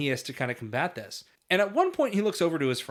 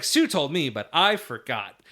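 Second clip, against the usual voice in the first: bad acting; 2 semitones higher, 5 dB louder, slower than usual. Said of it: "he delivers it like Skippy would in the movie Skippy".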